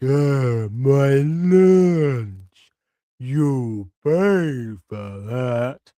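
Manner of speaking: dragging, very slow zombie voice. Translating what a zombie just said: imitating zombie speech. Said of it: "made of the zombie speech there, but like".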